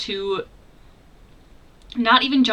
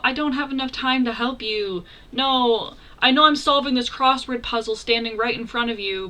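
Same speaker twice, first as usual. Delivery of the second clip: lightly hammed-up, higher-pitched apology; mock helpless excuses; 3 semitones higher than usual. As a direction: plead feebly, imitating a fake-sorry coward. Mocking his feeble excuse for fleeing.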